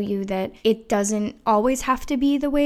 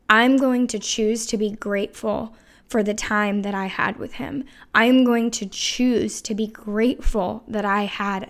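real emotion. Real, not acted. Remembering time with a late dad, emotional. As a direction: let real emotion creep into the voice. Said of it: "you can hear the emotion in my, in my voice".

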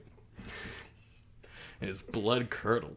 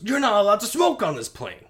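higher, louder sing-song mimicry; mocking mimic; 10 semitones higher, 9 dB louder than usual. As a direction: throw his words back at him in a taunting voice. She mocks him back.

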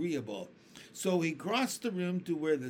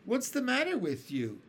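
put-on much higher worried old grasshopper; concerned grasshopper; 9 semitones higher than usual. A narrator's reading. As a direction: ask it with real concern. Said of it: "the old green grasshopper asked".

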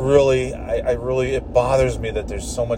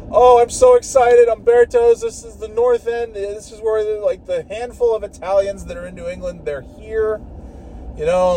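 much higher, gushing over Umberto's; mock gushing tourist; 6 semitones higher than usual. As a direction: ham up a starry-eyed pizza pilgrim. Mocking eager tourist at Umberto's.

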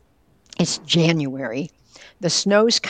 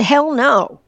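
a higher, louder "Hell no"; retold blunt refusal; 8 semitones higher, 7 dB louder than usual. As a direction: fire it off like a gruff old man refusing outright. Father flatly refusing organ donation.

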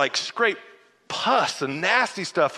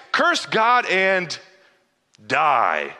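mocking wife's advice; 3 dB louder, much slower than usual. Wife's bitter advice to Job.

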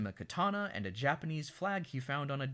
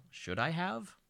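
Al's voice; 8 semitones higher, slower than usual. Retold or imitated. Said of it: "says Al".

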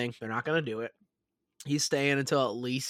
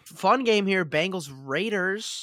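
slow, loud and high matchup call; excited announcing; 5 semitones higher, 3 dB louder, slower than usual. Real, not acted.

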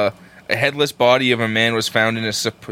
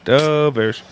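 put-on Wisconsin accent; 3 semitones higher than usual. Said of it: "that was a Wisconsin accent".

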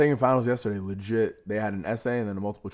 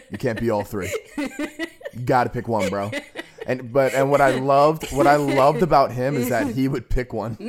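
laughing while quoting; 3 semitones higher, 4 dB louder than usual. Retold or imitated. Retelling scolding, laughing through it.

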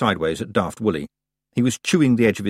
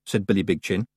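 ordinary delivery

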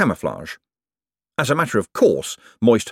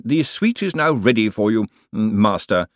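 a hint of a stiff announcer, humming before phrases; lightly voiced formal clerk. Bent presenting the suite to the master, lightly formal. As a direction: announce formally, slightly raised pitch.

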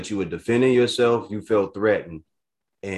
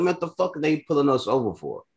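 upset outburst; 9 semitones higher than usual. Retold or imitated. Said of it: "Immediately got upset".

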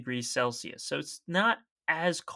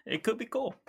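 playful high voice; 10 semitones higher, 4 dB quieter than usual. Pretend.

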